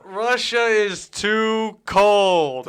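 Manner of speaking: very slow, high, loud hammed-up Russian accent. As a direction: drag it out in a mock Russian accent. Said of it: "or I would do Russian accent".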